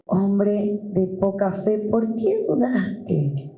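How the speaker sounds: slow, gentle rebuke as Jesus. Acted. Jesus gently rebuking Peter, slow. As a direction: ask "¿por qué dudaste?" slowly, like a patient master. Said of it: "y le dijo".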